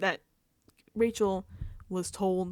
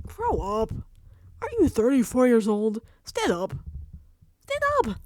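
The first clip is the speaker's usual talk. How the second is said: loud, barked orders, building higher; exasperated scolding; 3 semitones higher, 9 dB louder than usual. Acted. Telling Vince to grow up, exasperated shout. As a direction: shout him onto his feet, exasperated.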